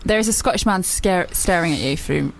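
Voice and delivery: put-on Scottish accent; low-ending mock Scottish. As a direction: attempt Scottish while reporting what you see. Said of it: "reasonable Scottish accent".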